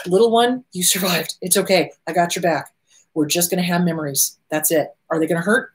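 low, gentle comfort; soothing reassurance. Acted. Adult self comforting the little one about memories, low soothing. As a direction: settle a scared little one, voice dropping.

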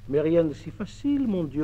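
usual speaking voice

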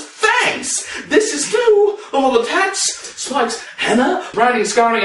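high-pitched, amazed exclamation; astonished outburst. Acted. Storyteller stunned by a cashier's fangs, high astonished outburst. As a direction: blurt it out high, stunned by the sight.

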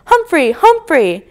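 mock little-kid shout; child shouting. A narrator's reading. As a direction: call the name out high and slow, like an excited toddler.

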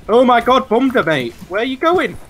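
loud excited yelling; yelling across the room. Real, not acted. Shouting at game action.

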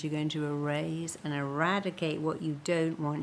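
ordinary delivery

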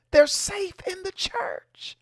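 slow, sinister whisper. Acted. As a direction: hush it like a dark secret. Sinister aside about predators.

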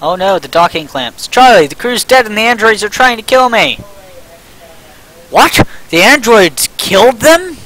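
urgent crew member calling over the radio; lightly acted radio call; voiced game character.

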